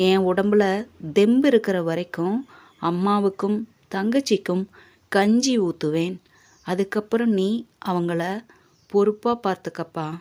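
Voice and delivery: softly spoken fatherly appeal, dying down; understated, quiet and heartfelt; tender entrusting. Acted. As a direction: gently hand over a responsibility. Father tenderly hands over family care.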